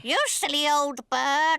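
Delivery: talking-bird voice; parrot mimicry. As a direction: parrot echoing its owner. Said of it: "I can teach Polly what to say".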